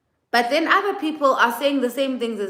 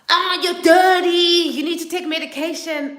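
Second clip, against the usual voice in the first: mock sing-song insult; 9 semitones higher, 4 dB louder than usual. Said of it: "He comes in on some".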